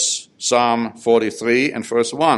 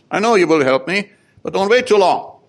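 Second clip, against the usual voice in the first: pleading urgency; 6 semitones higher than usual. Acted. Voicing psalmist urging God.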